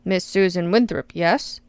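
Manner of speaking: a light, understated mocking query. Congressman questioning the witness, lightly mocking. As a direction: toy with her name without pushing it. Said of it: "he queries almost mockingly".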